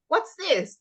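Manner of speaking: put-on high, bright question to a child; teacher quiz voice. Shown as a demonstration. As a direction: ask it like quizzing a small child. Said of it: "And I'll say".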